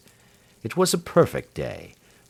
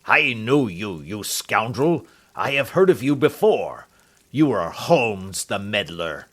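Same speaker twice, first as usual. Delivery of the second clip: angry insult. Acted. Roylott insults Holmes.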